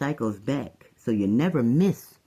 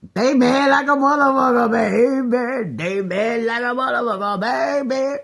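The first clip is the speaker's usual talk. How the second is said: mocking sing-song; 10 semitones higher, 5 dB louder than usual. Mocking chant about enemies.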